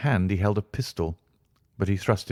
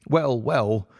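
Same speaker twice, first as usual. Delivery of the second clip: nervous; 5 semitones higher than usual. Acted. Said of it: "in a nervous fashion".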